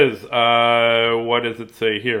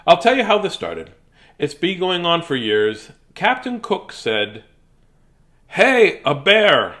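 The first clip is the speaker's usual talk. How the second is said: drawn-out storybook character voice; Warren explaining, put-on accent; slower than usual. Warren telling how the bear mistake started, hammy and exasperated. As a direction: tell it slowly, with hammy exasperation.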